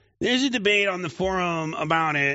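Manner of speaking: put-on, mocking whiny voice. Retelling what Pleasure Man said, imitating Pleasure Man's whiny voice. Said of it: "in his like gay-ass whiny voice".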